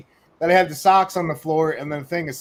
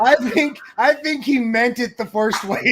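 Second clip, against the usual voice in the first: laughing; 4 semitones higher than usual. Real, not acted. Laughing through a disagreement.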